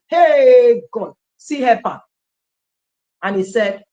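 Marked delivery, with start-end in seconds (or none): 0.1-2.0 loud burst of delight; joyful shout. Retold or imitated. Woman shouting with joy after getting the money, loud. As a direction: cry out in happy disbelief.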